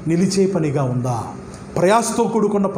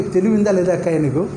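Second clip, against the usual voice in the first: a put-on voice sneering back; mock rebuke to an exam cheater; scornful retort; 2 semitones lower than usual. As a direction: snub a pestering student, lightly voiced. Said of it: "అంటాడు లేదా".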